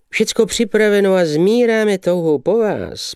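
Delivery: high, eager gushing; fussing eagerly. Acted. The young man fawning over the lady, in a high, gushing voice. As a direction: bustle about, overeager to please. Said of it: "povykoval mladík".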